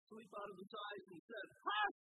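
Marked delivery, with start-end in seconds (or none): 1.5-2.0 loud, higher, stern command to the storm; commanding shout. Acted. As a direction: silence the wind with authority.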